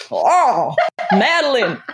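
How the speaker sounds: mock leading-man lament; hammed-up cry of longing, uncertain accent; Jimmy Stewart. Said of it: "picture Jimmy Stewart".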